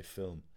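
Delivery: "film" said in two syllables, "fillum"; double-syllable Dublin pronunciation. Shown as a demonstration. Dubliner giving an example of double syllables, "film" as "fillum". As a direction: stretch "film" into fill-um. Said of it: "you'd have double syllables".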